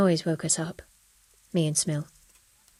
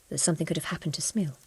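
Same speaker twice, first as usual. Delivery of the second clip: a sudden unvoiced whisper, softer; whispered dread; 7 dB quieter, faster than usual. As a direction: let the words drop to a frightened breath. Widow realizes son may be hurt.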